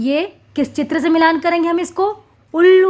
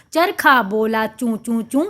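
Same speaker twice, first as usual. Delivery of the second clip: rhythmic recitation; 4 semitones lower than usual. Shown as a demonstration. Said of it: "लय के साथ पढ़ें".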